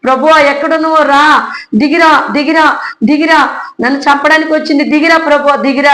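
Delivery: urgently calling on God to come down, half re-lived. Retold or imitated. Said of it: "యేసయ్యను పిలుస్తున్నా కేకలేసి".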